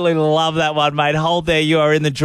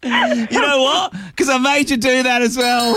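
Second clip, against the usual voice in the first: excited; 6 semitones higher than usual. Real, not acted. Host excited on air.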